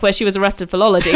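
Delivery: fast, laughing through the words; laughing at the irony. Real, not acted. Ironic twist in story.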